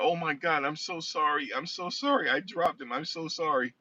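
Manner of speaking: high-pitched imitation of a flustered nurse; mock panicked apology. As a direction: imitate someone apologizing over and over in alarm. Nurse frantically apologizing after dropping baby.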